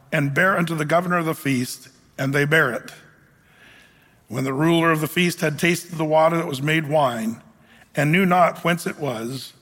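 measured, formal Bible reading; solemn reading of the wedding at Cana; scripture reading. Acted. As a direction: read the King James passage with weight.

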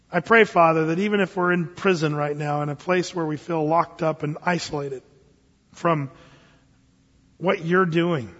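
earnest pastor praying aloud; closing prayer. Acted.

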